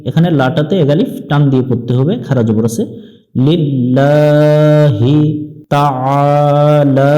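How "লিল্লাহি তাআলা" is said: slow তাআলা with the ain pressed from the throat; long drawn vowel in তাআলা, throat pressed; Arabic pronunciation. Shown as a demonstration. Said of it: "আইনটা একটু চেপে পড়তে হবে".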